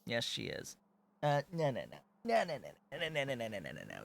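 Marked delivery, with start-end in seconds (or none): 1.2-4.0 urgent no no. Real, not acted. Stopping kitten from jumping.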